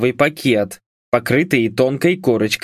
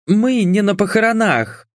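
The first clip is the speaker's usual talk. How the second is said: much higher, outraged objection; indignant; 9 semitones higher than usual. A narrator's reading. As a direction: protest sharply. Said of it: "возмутилась блондинка".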